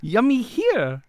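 high, loud, drawn-out coaxing; enticing pet talk. Acted. Pig nods, prisoner coaxes slowly in high voice. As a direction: slowly lure an animal to food.

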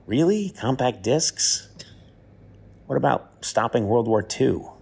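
self mocking. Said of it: "I'm thinking".

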